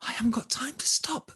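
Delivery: put-on high, rushed young heroine; quick and high, no time to stop; hurried. Hurried Olga's thought, in story.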